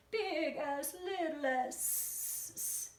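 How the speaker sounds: high, lightly voiced grandma. Shown as a demonstration. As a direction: croon it like a grandma. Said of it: "Another grandma voice".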